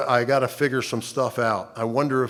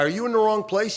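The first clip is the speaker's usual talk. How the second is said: puzzled question; 10 semitones higher than usual. Retold or imitated. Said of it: "I said to the guy".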